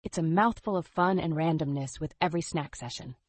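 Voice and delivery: upbeat retro commercial read; chipper 1950s ad. Acted. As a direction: sell it like an old TV ad. Podcast ad segment.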